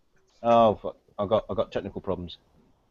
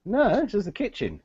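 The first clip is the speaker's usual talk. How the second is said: higher, exasperated insisting; insistent; 12 semitones higher than usual. Real, not acted. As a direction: correct them, fed up. Friends keep doubting the kitchen.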